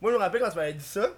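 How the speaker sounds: hoarse, sore-throated voice; talking through a sore throat. Real, not acted. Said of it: "j'ai mal à la gorge".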